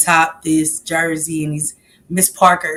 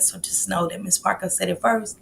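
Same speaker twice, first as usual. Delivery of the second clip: whisper; 7 dB quieter than usual. Real, not acted. Aside about Taco Tuesday.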